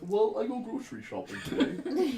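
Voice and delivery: high, laughing voiced villager; silly character voice. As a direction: chatter like a bored peasant. Character's idle daily routine voiced.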